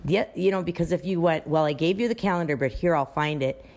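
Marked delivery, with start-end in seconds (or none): 1.5-3.6 quick, impatient "I gave you the calendar"; a hint of talking down; condescending. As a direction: rush through it with mild annoyance. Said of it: "you left that person upset".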